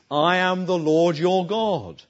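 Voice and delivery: slow, solemn and measured, as if God speaks. Retold or imitated. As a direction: let each word land slowly with weight. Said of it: "He says".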